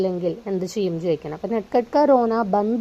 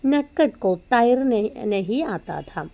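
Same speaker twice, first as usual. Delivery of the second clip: slow, careful read-aloud of the Hindi text; teacher reading a story to students; 2 semitones higher, 4 dB louder, much slower than usual. Acted. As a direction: read the line slowly for the class.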